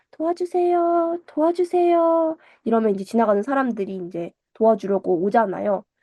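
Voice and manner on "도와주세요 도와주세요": put-on very high, delicate, frail, pleading girlish voice. Retelling someone sitting in the forest calling to passersby, frail young girl's voice. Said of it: "가녀린 소녀의 목소리로".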